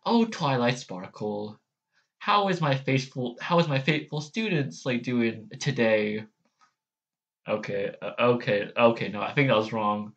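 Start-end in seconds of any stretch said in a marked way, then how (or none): 0.1-6.2 Celestia. Acted. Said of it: "let me try Celestia's one".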